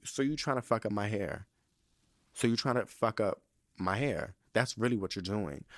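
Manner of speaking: low, controlled challenge; menacing confrontation. Acted. Customer confronting whoever jostled the barber, quietly menacing.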